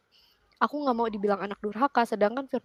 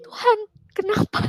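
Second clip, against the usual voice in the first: high, tearful cry to God; 11 semitones higher, 4 dB louder than usual. Retold or imitated. Woman crying out to God at the office, tearful and high. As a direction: sob it out as a plea. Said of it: "aku bener-bener nangis yang kayak".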